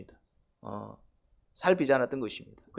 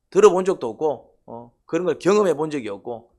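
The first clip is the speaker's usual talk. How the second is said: emphatic preaching; 6 dB louder than usual. Real, not acted.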